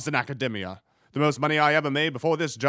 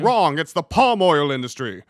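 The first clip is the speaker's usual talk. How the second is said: loud game-show wrong; gleeful shout; 6 dB louder than usual. Acted. Host shouting the answer at the guest, a gleeful yell. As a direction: bellow the answer with glee.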